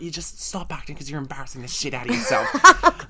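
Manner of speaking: laughing. Retold or imitated. Laugh on retold line.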